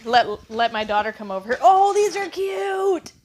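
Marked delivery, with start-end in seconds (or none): 1.6-3.1 delighted. Real, not acted. Seeing cute red shoes.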